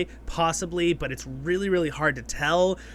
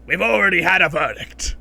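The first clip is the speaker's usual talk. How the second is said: stern dwarf; 6 dB louder than usual. Retold or imitated. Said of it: "the dwarf goes".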